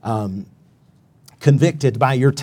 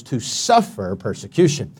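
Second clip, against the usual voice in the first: SUFFER leaned on, persecution trailing after it; stress on suffer. Shown as a demonstration. Preacher showing where the emphasis falls, stress on suffer. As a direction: put the emphasis on the word suffer. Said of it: "where the emphasis is".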